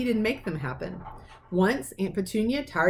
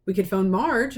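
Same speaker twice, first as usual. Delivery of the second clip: Uncle Vernon suggesting; 4 dB louder than usual. Acted. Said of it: "Uncle Vernon suggested".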